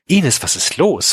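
worried. A narrator's reading. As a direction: ask with acted concern. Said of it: "Frank Defke klang besorgt".

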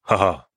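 short, dry "haha"; humourless laugh. A narrator's reading. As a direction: give a laugh with no mirth. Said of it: "Er lachte humorlos auf".

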